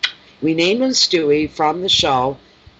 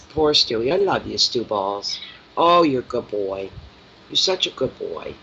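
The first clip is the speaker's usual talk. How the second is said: tender pet talk; 2 semitones lower than usual. Real, not acted. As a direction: coo lovingly. Cooing to the cat.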